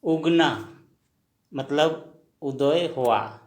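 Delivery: उदय हुआ drawn out as u-doy hu-a; slow it right down for learners; slow teaching demo. Shown as a demonstration. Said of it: "असमिया में क्या कहेंगे?".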